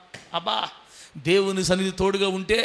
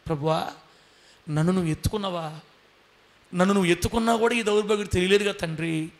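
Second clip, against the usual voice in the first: weeping servant. Retold or imitated. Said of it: "ఏడ్చాడంట".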